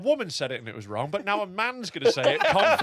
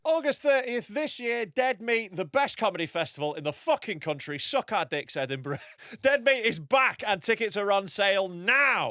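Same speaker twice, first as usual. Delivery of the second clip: ad read; 3 semitones higher, slower than usual. Acted. Ad read for festival.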